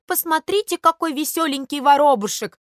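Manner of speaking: lightly acted amused passer-by; amused onlookers. Onlookers admiring a sparrow in story.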